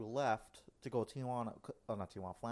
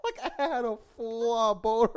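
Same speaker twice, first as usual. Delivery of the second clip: high, loud and laughing; can barely get it out for laughing; laughing, half crying; laughing out the words; 10 semitones higher, 8 dB louder than usual. Real, not acted. Laughing while retelling.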